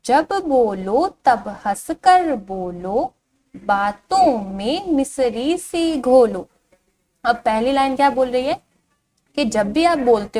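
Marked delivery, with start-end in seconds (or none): 0.0-6.5 slow, singsong verse reading; drawn-out, lilting children's poem; poem recitation. Shown as a demonstration. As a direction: recite slowly to a class, stretching the vowels. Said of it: "इस कविता को पढ़ना शुरू करते हैं".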